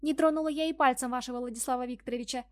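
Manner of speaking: lightly mocking high squeaky mimicry. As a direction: parody a squeaky secretary. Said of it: "Таким же писклявым голосом передразнила она Лиду".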